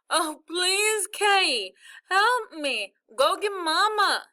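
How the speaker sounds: high, loud, slow desperate pleading; panicked begging. Acted. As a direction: beg for help, near tears. Brother stuck, begging.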